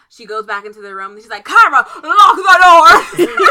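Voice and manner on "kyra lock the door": drawn-out, high, very loud holler; yelled order. Retold or imitated. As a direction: bellow it slowly, cracking up at the end. Boss yells order again, retold.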